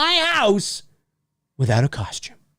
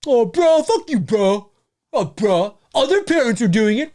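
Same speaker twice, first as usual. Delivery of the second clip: put-on protesting bro voice; whining teen bro; 2 semitones higher than usual. Teen sent home for a costume, mock protest. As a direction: imitate a teen arguing back.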